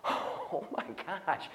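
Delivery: breathless, slow whispered gasp of wonder; awed whisper. Retold or imitated. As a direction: whisper it like you can't believe your eyes. Disciples amazed watching Peter.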